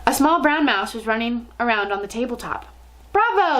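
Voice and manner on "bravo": high, loud cry of applause; cheering yell. A narrator's reading. Witches applauding their leader, cheering yell. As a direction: yell it like a delighted crowd. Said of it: "yelled the audience".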